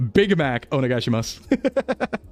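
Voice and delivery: put-on slow American-accented order in Japanese. Streamer showing a failed burger order, American accent. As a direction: say it slowly with a broad American accent. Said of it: "But you can't be like".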